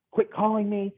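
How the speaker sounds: high, snappy mock of an irate caller; angry caller. Salesman mimics an annoyed prospect's voicemail, high and curt. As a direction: toss off the caller's angry brush-off. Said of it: "he shreds me on this voicemail".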